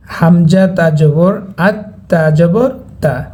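slow spelling drill, "আত" closed on the t, then "তা" opened; দুইবার উচ্চারণ. Shown as a demonstration. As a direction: sound the t twice, closing "আত" and starting "তা". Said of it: "সে হরফটি দুইবার উচ্চারণ". ("আত" আর "তা"-তে ত দুইবার, ধীরে বানান করে)

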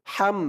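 "হাম" with a thin H from inside the throat; thin throaty H. Shown as a demonstration. Teacher repeating the letter for learners, "হাম" with thin throaty H. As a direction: draw the H of "হাম" thinly from the throat. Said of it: "গলার ভিতর থেকে চিকুন করে".

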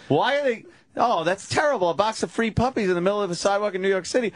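high, fast, shocked passer-by; shocked passerby. Retold or imitated. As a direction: gasp at it like an outraged stranger. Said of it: "for people to pass by and go".

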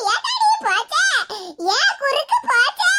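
theatrical mock lament; fake wailing. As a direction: pretend to sob over a broken back. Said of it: "கண்ணீர் விட்டு கதற மாதிரி நடி".

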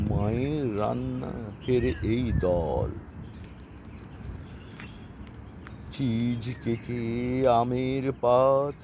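chopped, word-by-word rhyme recital; staccato. Acted. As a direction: recite the rhyme in clipped chunks. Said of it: "আমি কেটে কেটে বলবো".

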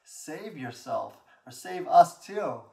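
mock him, landing hard on the last plea; challenging jeer in a preacher's retelling; retold mocking. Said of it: "one criminal even mocked him".

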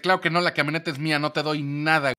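fast, loud, firm refusal; husband refusing to hand back the truck; defiant refusal. Retold or imitated. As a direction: shut her down flat.

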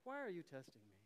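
cool, even, unbothered; calm Jedi-like rebuke. Shown as a demonstration. Pastor coaching calm reply to family member, unbothered. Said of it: "Like a Jedi".

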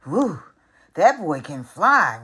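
cheering. Acted. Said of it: "one man cheers".

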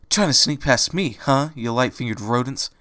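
mild angry challenge; understated angry vendor. Acted. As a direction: catch the thieves red-handed. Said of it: "came an angry voice".

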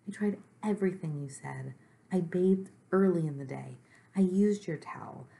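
mildly distressed complaint, slowing and rising at the end; upset Gorp, a little monster. Acted. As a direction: plead that nothing has worked.

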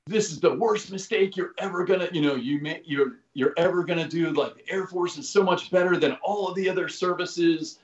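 half-strength retold scolding; mild mock yelling. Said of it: "he's screaming and yelling at me".

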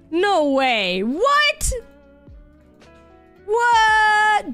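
ordinary talk

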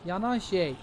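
high, loud scolding yell; angry shout. Real, not acted. Gamer yelling at an enemy to get lost. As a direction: drive it off with a yell.

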